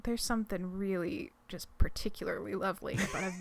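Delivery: hushed, breathy whisper. Real, not acted. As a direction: whisper it like a secret. Gushing in a hushed aside.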